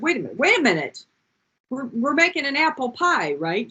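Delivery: a boy pleading, lightly played; protesting child. A son imitating his younger self questioning mom, mild protest.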